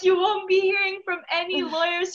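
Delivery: high, loud mock assurance; over-earnest reassurance. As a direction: promise it loudly, pitched well up. Retold reassurance to vice principal after seizure.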